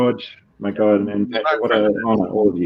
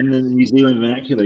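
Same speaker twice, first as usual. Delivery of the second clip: New Zealand accent; 2 semitones higher, 4 dB louder, faster than usual. Shown as a demonstration. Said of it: "title sounds great in your accent".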